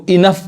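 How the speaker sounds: इनफ said as "i-nuf"; इनफ with gh pronounced f. Shown as a demonstration. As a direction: end इनफ on an f sound. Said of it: "जीएच का उच्चारण क्या है".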